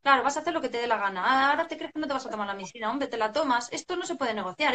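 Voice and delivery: fast, sarcastic scolding; mock-irritated parent, rattled off quickly; exasperated parent. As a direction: snap at the child impatiently. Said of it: "lo que nos pasa es".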